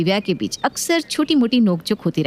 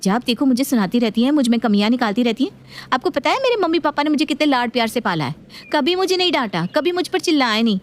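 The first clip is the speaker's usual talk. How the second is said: pitched higher, defiant retort; daughter-in-law; 6 semitones higher than usual. Acted. Daughter-in-law retorting to mother-in-law, higher and defiant. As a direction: throw it back at her.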